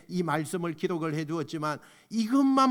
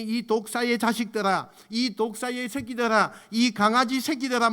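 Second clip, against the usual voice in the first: unrestrained rebuke; 4 semitones higher than usual. Retold or imitated. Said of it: "거침없이 표현을 하시잖아요".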